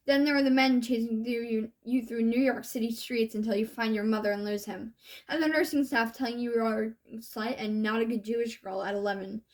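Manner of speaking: measured spoken-word delivery, rhythmic and earnest; slam poem recitation. Acted. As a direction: perform it as a slam poem, letting each line land.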